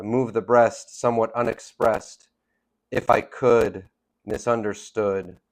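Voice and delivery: measured phrases, pausing after "unexpressed" and "could"; delayed rhyme brought out. Shown as a demonstration. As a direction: linger on "breast", "unexpressed", "could", "misunderstood". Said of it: "it's kind of a delayed rhyme".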